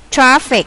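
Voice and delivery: "Traffic" stressed on TRA; first-syllable stress. Shown as a demonstration. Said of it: "nhấn âm đầu". ("Traffic" nhấn âm đầu)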